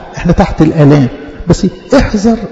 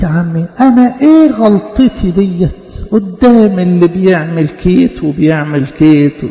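defensive excuser; slower than usual. Retold or imitated. Voices sinner's defensive excuse.

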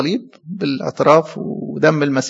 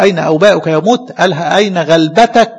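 proud taunt; 4 dB louder than usual. Acted. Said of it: "بيقول بفخر".

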